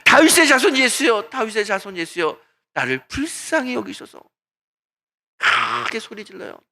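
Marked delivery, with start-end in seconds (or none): 0.0-4.2 crying out. Retold or imitated. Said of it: "있는 힘을 다해서 소리칩니다".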